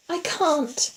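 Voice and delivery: high, frightened, held-in voice; whispered back. A narrator's reading. Terrified woman answering in the dark, whispered. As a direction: whisper it in fear, pitched high. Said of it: "she whispered back".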